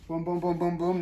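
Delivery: soft steady boom boom; rhythmic booms. Shown as a demonstration. Upholsterer sounding out each staple, softly. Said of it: "See how smooth that is?".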